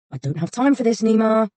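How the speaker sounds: pushed out between clenched teeth; irritated words through gritted teeth. Acted. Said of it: "Kane said through gritted teeth".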